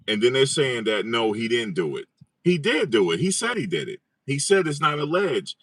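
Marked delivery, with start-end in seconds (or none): 2.4-5.6 insistent. Real, not acted. Insisting hotly to doubters.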